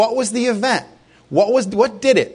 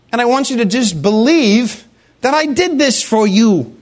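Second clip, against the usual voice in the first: voicing God; 3 semitones higher than usual. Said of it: "God said".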